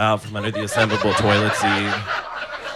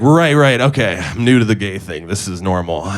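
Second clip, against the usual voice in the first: forced acceptance. Retold or imitated. Pretending to accept the weird.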